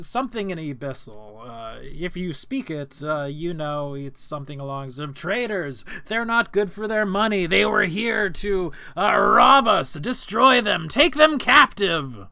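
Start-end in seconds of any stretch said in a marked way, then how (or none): 5.1-12.3 loud, higher battle alarm cry; shouting an alarm. Acted. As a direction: yell it out to rouse the camp. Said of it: "shouts an alarm".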